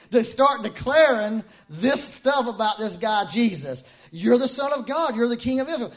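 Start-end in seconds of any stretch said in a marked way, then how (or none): 4.1-5.9 re-voiced higher and louder, stirred; moved declaration. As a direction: proclaim it like a man deeply moved. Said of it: "this guy was moved right there".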